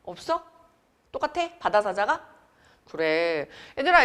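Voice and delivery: ordinary delivery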